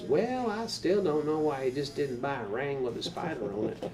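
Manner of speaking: Southern Texas mom. Retold or imitated. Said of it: "she's got that Southern Texas".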